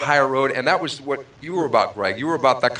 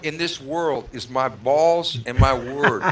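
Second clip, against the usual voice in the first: Al Pacino impression. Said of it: "you can quote Al Pacino".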